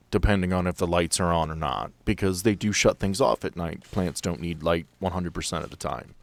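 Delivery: ordinary delivery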